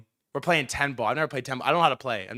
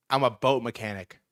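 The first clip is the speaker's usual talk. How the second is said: lower, measured tough-guy answer; imitating a grim man's reply; deadpan reveal; 4 semitones lower than usual. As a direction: drop it low and matter-of-fact.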